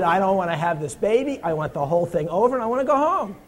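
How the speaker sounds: imitating a desperate woman in labor, loud; retold yell of a woman in labor. Preacher imitates a woman in labor demanding to go home, loud mock yell. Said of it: "including profanity and screams".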